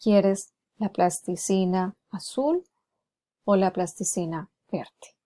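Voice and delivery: slow it down so each option stands apart; slow and deliberate, offering two options; slow, clear choice. Shown as a demonstration. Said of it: "le hago la diferenciación". (ofreciendo dos opciones, despacio y claro)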